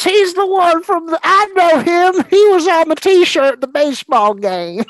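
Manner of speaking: put-on high, excited kid voice; childlike excitement. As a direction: gush like a kid. Gushing childlike voice.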